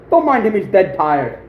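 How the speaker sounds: slow deadpan one-liner with a hint of Austrian accent; Arnold. Telling the hostess about the dead man, lightly put-on Austrian accent. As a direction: lightly imitate an Austrian action hero's accent. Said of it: "his accent".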